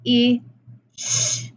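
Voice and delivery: "I, sh" as isolated sounds, short vowel, then a hushing "sh"; segmented sounds. Shown as a demonstration. Teacher counting sounds in fish, "I, sh" each said alone. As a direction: sound out "I, sh" separately, pausing between. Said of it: "How many sounds are in that syllable?".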